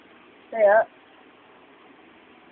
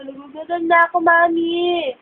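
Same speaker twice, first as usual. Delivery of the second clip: put-on baby voice; 4 semitones higher than usual. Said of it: "Sabi mo".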